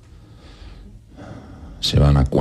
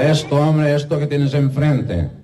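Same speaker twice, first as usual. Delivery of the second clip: exasperated; 10 semitones higher than usual. Acted. Frustrated man to duck.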